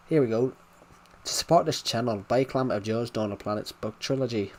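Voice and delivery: put-on Irish brogue; thick Irish accent. Shown as a demonstration. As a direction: plug delivered in an Irish accent. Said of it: "the Irish accent's a little bit, is very thick".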